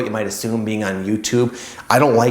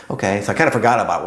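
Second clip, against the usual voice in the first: normal talking voice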